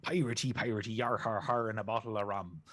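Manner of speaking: hammed-up pirate growl; mock pirate, yar har. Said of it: "just stick with your pirate voice".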